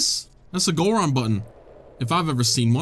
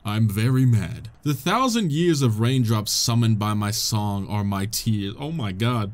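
ghost's solemn message; 4 semitones lower than usual. Acted. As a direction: read it like a lightly spooky spirit speaking. Reads the ghost's message aloud.

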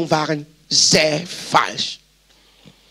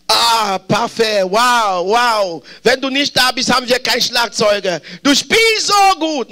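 mock admiration, rising high on the last phrase; gushing praise; 3 semitones higher than usual. Preacher voicing the admirers the drummer hoped for, gushing. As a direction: gush like an adoring fan, stretching the final praise.

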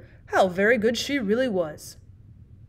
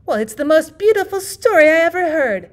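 higher and louder, firm verdict; immense decision; 7 semitones higher, 7 dB louder than usual. Acted. The bigger girl declares her verdict on the story, firmly. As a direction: declare it with total certainty. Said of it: "with immense decision".

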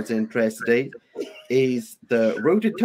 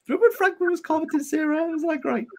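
much higher, playful teasing tone. Real, not acted. Reminding friends of a funny moment, high teasing. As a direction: tease them in a high sing-song. Teasing about translator commenting.

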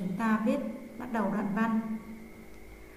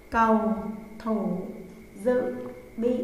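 dictating; slower than usual. Shown as a demonstration. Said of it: "Mời các em viết tên bài nào".

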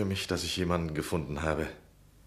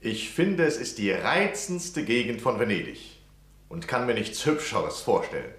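higher, eager praise; gushing; 5 semitones higher than usual. Acted. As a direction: flatter her with bright enthusiasm. Lodger gushing to the old lady.

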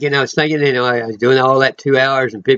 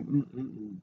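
choked-up hum; 19 dB quieter than usual. Real, not acted. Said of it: "I'm gonna start crying".

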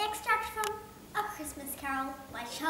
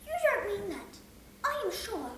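cheerful nephew; 8 semitones higher than usual. Acted. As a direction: tease the grumpy uncle.

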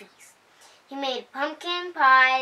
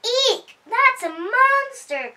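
much higher, slow frightened squeal; scared duck; 11 semitones higher, 4 dB louder, slower than usual. A narrator's reading. Duck sees goop-covered Dragon, high frightened shriek. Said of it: "cried the duck".

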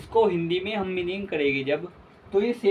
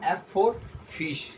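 slow dictation; 3 semitones higher, much slower than usual. Shown as a demonstration. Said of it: "teacher dictating letters slowly".

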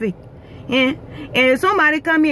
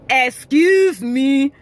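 offensive "excuse me"; much slower than usual. Retold or imitated. Imitating a stranger pushing past rudely. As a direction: stretch "Excuse me" to sound like a shove. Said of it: "in such an offensive way".

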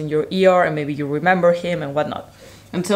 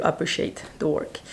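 out of breath; 8 dB quieter than usual. Real, not acted. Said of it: "I'm out of breath".

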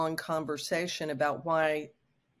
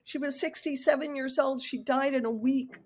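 railing; 8 semitones higher than usual. Retold or imitated. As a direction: rail against it, pitch way up. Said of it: "And I was just railing".

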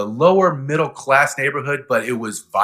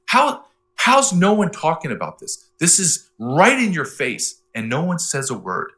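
higher, disbelieving rush of questions; incredulous; 5 semitones higher than usual. Retold or imitated. Retelling disbelief at the border to host. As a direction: voice rising in shocked disbelief. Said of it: "I'm like".

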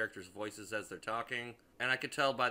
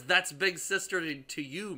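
repeating the movie line in mocking disbelief; incredulous repeat; 5 semitones higher than usual. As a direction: spit the line back in disbelief. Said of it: "what does ... mean".

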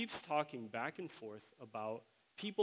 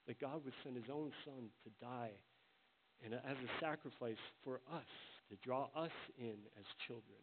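awed prayer; 3 dB quieter than usual. Acted. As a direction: marvel quietly at God's love. Praying in awe.

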